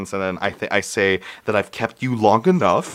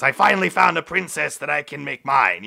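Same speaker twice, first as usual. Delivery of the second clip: lightly voiced, higher cartoon king; Ice King; 4 semitones higher than usual. Retelling a pretend-play proposal, cartoon king voice. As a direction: play a cartoon king claiming his bride, pitched up. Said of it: "Ice King says".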